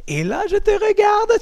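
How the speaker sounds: high, slow and drawn out; intense look. Shown as a demonstration. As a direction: lock eyes on the student, slowly. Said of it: "coach stare, slow".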